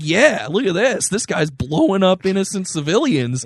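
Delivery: mildly mock-enthusiastic partisan; right-wing cheerleader. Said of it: "then you have the right saying".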